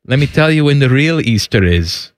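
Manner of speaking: a Greek church lady lecturing you; Greek accent. Retold or imitated. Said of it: "that's the Greek accent that you're going with?".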